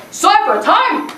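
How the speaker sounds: high, loud call to the class; announcing shout. Retold or imitated. Teacher calls the class into a circle, high shout. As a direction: shout it like a hype man.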